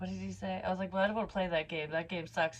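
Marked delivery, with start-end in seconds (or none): none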